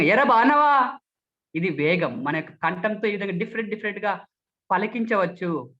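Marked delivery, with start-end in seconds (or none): 0.0-1.0 loud, rushed greeting; very fast. Shown as a demonstration. Speech trainer demonstrates a greeting, extremely fast. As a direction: fire it off in one loud burst. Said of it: "అతి వేగంగా".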